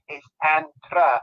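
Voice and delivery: It's Antra, said slowly, each sound of Antra spelled out; slow careful Antra, no th; correcting the name. Retold or imitated. Wife slowly corrects her name, Antra. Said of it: "she said".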